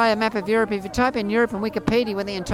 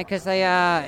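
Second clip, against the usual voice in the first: ordinary talk, nothing marked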